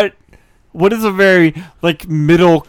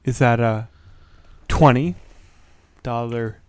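card magician patter; 3 semitones lower, 5 dB quieter than usual. Acted. Magician character continues trick.

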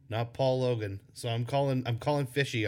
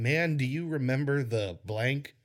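slow, drawn-out mock reminiscing; imitating nostalgic fans; slower than usual. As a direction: imitate wistful fans, slowly. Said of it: "is people going".

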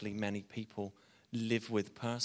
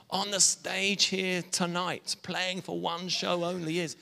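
raised-pitch show announcer; stage announcer; 5 semitones higher than usual. Acted. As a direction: introduce the star act to the crowd. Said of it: "it's the announcer".

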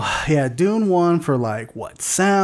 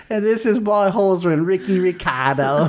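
mock celebrity accent, slowing at the end; Nicole Kidman; 3 semitones higher than usual. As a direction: keep up a hammed-up accent impression. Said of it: "Nicole Kidman's like".

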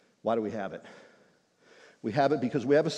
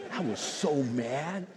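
laughing mock anger; 3 semitones higher, much slower than usual.

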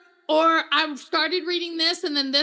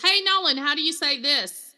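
calling upstairs; 2 semitones higher, 4 dB louder than usual. Retold or imitated. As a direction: shout the question up the stairs to the son. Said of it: "I'll yell upstairs".

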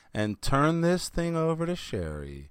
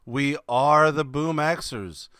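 slow announcer; slower than usual. Acted. Podcast intro announcement.

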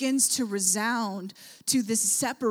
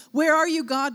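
louder anguished call; crying out; 4 semitones higher, 5 dB louder than usual. Retold or imitated. Preacher voicing Jesus calling from the cross. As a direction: reach for God in the dark. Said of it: "and Jesus going".

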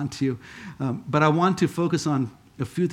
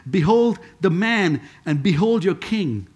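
emphatic proclamation; 3 semitones higher, 4 dB louder, slower than usual. Acted. Quoting both of Pilate's proclamations.

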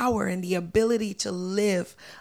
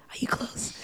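playful conspiratorial whisper; whispered secret; 9 dB quieter than usual. Pretend. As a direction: lean in and whisper it. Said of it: "Can I tell you a secret?".

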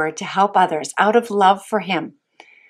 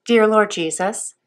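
prayer. Real, not acted. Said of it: "I would like you to repeat after me".

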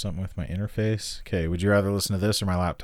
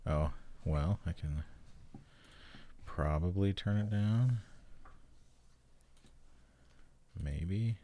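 whispering; 11 dB quieter, slower than usual. Real, not acted. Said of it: "You were just whispering".

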